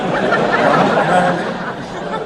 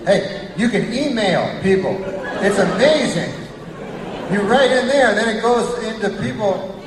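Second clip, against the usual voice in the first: excited tech fan; 5 semitones higher than usual. Retold or imitated. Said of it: "They go".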